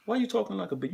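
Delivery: cutesy. Real, not acted. Teasing his son's baby talk.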